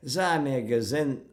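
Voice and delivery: put-on Yiddish in a Glaswegian accent, loud; mock Glaswegian delivery. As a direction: imitate a Glaswegian speaking Yiddish. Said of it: "Yiddish spoken in the Glaswegian accent".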